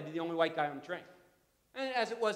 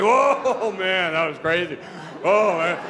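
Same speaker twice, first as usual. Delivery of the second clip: relieved wow; 12 dB louder, much slower than usual. Retold or imitated. Passengers relieved.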